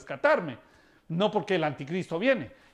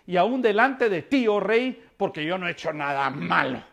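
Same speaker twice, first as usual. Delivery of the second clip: Daniel's answer; 4 dB louder than usual. Acted. Daniel answers the king from pit.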